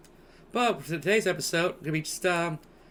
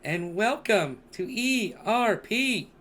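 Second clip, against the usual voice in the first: flamboyant host voice, higher and louder; campy drag queen; 5 semitones higher, 3 dB louder, slower than usual. Pretend. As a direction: diva welcoming her darlings. Podcast host persona intro.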